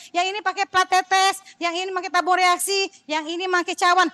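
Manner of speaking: high, sing-song list of instructions; exasperated re-explaining. Retold or imitated. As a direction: recite it high, item by item, as if explained already. Re-enacting her repeated explanation, exasperated.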